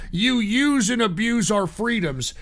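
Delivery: ordinary talk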